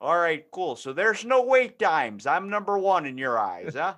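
lightly voiced cheery old dad; clueless dad. Clueless dad joking with the support agent, light folksy voice. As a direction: play a pleased clueless dad. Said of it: "that dad that doesn't actually know".

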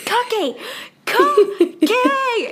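high, loud, laughing yell of "Cookie!"; screaming the password. Retold or imitated. A girl yelling at her journal to open, shrieking "Cookie!". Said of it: "you would just hear me screaming at it".

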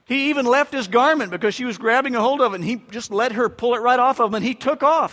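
building excitement. Real, not acted. Dramatic Joseph story climax.

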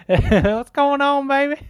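high, drawn-out mock impression; imitating P T D. Host parroting the caller's hilarious imitation, high mocking voice. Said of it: "he chose to imitate P T D was hilarious".

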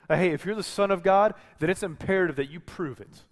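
mock-insistent devil pressing Jesus; taunting dare. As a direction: taunt him to prove it. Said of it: "It's Satan saying".

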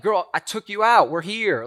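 voicing his past self, loud and indignant; mock indignant. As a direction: act out insisting the date counts. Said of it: "But to me, I was like".

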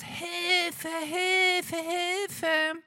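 put-on high, frantic calls of a trapped child; panicked cry for help. A narrator's reading. Boy at the window calls for help, high and panicked. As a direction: cry out for help from the burning house. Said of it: "brüllt raus".

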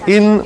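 "in" said slowly, nearly "en"; in with tiny E. Shown as a demonstration. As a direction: model "in" slowly with a very small E sound. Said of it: "una E chiquitita".

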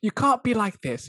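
put-on botched high Irish accent. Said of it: "as I botch my Irish accent".

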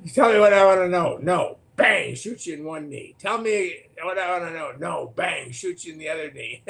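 Jack Bauer interrogator. Retold or imitated. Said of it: "he was this great guy".

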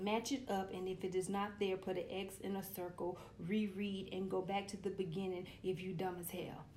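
mock worksheet instructions. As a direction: sneer at the instructions. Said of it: "The motherfucker said".

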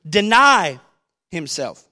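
a corrected call of Deny himself; corrected answer. Shown as a demonstration. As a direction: proclaim Deny, then let himself fall away. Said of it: "I said it backwards?".

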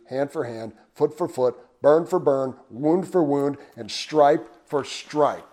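measured, deliberate reading of the law; scripture reading. Acted. Preacher reading Exodus to the congregation, measured scripture reading.

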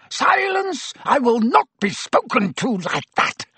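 very high furious shriek. A narrator's reading. Snape shrieking at Harry for his insolence, shrill fury. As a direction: shriek it, losing control. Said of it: "Snape shrieked".

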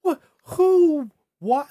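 high, loud incredulous questions; exasperated, high-pitched bewilderment; baffled disbelief. Real, not acted. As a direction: blurt it out, utterly baffled. Reacts baffled to the retold remark.

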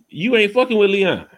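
high-pitched warning to a character; mock scolding. Host telling off Franklin over Leon, mock scolding. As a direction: scold him playfully, pitch well up.

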